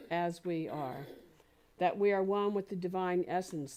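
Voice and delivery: firm, declarative spoken prayer; closing prayer. Real, not acted. Minister closes out today's talk for the congregation, in affirmative prayer. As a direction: pray it out in emphatic, measured phrases.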